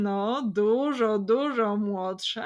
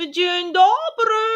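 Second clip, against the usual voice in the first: elegant lady's greeting; 11 semitones higher, 12 dB louder, slower than usual. Acted. Lady enters the hut.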